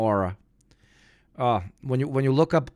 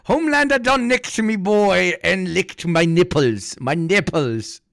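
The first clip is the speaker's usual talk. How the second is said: mock Australian accent; 6 semitones higher than usual. Riffing on the clip, mock Australian accent. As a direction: lay the Australian accent on thick. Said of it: "I can't do the Australian accent".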